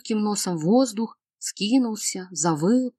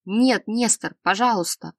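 pleading cry; 2 semitones higher than usual. Acted. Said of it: "умоляюще крикнул лекарь".

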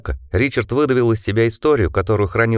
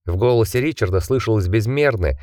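usual speaking voice

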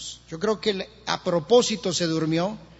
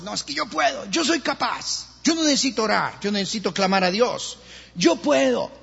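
mock self-sufficiency; 3 semitones higher than usual. Preacher mimicking people who refuse to pray, mock self-sufficient. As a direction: insist you can manage, lightly mimicking.

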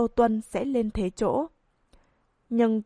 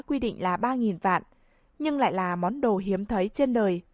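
auctioneer, voice trembling with excitement; excited auctioneer; 2 semitones higher than usual. Acted. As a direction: announce the bid, thrilled. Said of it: "kích động phát run".

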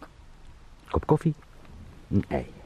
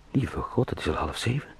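normal talking voice

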